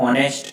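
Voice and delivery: ઓનેસ્ટ with the H left silent. Shown as a demonstration. Teacher repeating the pronunciation after the example, silent H. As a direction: start ઓનેસ્ટ straight on its vowel. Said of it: "ઉચ્ચારણ".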